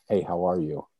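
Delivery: mean every word of the hello; caring greeting. Shown as a demonstration. Greeting a stranger on the street with real care. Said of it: "I really cared".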